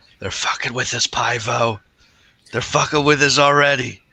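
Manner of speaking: stage whisper, loud. Recounting the moment Pivo arrives, speaking to Pivo, in a stage whisper. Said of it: "in a stage whisper".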